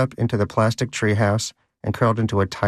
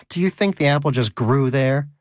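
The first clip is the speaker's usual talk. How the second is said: mild shout; 5 semitones higher than usual. Acted. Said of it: "Donut shouted".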